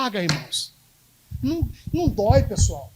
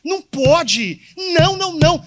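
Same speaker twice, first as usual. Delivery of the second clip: emphatic refusal; 6 semitones higher, 5 dB louder than usual. Real, not acted. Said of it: "preacher insists emphatically".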